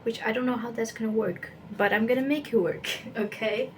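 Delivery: words round a toothbrush; while brushing teeth. Real, not acted. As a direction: talk through toothbrush foam. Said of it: "while I'm brushing my teeth".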